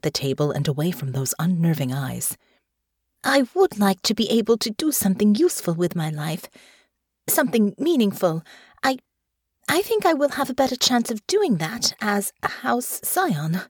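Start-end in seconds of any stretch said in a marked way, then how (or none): 3.2-13.6 put-on slightly higher, earnest young noblewoman; polite and a little eager; lightly voiced young lady; young Honor. Honor answers nervously.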